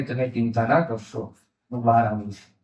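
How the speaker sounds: low, gently settling voice; imitating a calm elder's comfort; calm reassurance. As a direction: reassure them quietly, unhurried and sure. Retold leader reassures worried youths.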